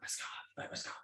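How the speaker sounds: very hushed, barely voiced whisper. Retelling calling out to a figure in the dark: retelling a whisper. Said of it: "I'm trying to whisper".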